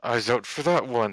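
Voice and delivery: words squeezed through gritted teeth. Acted. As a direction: talk through clenched teeth. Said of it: "he says through gritted teeth".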